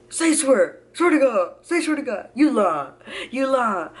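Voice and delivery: high, loud, punchy disbelief; disbelieving boyfriend. Retold or imitated. Boyfriend hearing she is pregnant, disbelieving. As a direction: imitate a stunned man demanding she swear.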